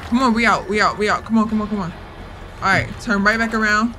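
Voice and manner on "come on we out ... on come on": frantic, urgent panic; rushed pleading while fleeing; being chased. Real, not acted.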